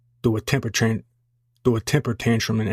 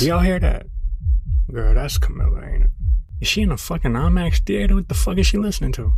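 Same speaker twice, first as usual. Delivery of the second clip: higher, louder, exasperated; loud outraged complaint; 6 semitones higher, 5 dB louder than usual. Acted. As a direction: yell over the blaring music. Complaining about loud stereo.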